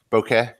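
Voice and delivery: "bokeh" with a short "eh" ending; pronunciation demo. Shown as a demonstration. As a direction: say "bokeh" as BOH-keh. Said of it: "it's been pronounced seven different ways".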